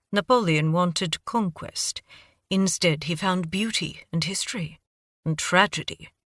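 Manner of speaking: put-on measured, lightly British-accented lecture; a hint of British accent, explaining the engraving. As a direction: tell the history in a cultured British accent. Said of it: "Your accent".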